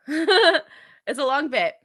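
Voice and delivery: slow, laughing repeat; drawn-out laughing remark. Real, not acted. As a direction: chuckle it out slowly.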